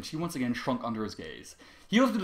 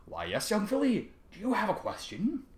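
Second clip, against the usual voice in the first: overly polite; 8 semitones higher than usual. Acted. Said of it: "Trevor spoke as if his previous outburst had not happened".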